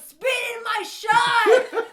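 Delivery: laughing loud shout; drunken shout. Retold or imitated. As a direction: yell it up high. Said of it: "the guy goes".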